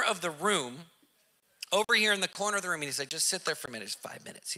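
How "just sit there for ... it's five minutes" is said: softly, fading to a whisper; calm, hushed. Retold or imitated. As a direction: settle him in the corner quietly. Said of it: "cool and collected".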